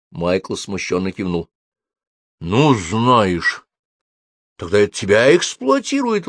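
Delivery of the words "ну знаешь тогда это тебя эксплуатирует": higher indignant retort. A narrator's reading. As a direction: turn it back on him indignantly. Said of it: "возмутилась Софи". (возмущённо)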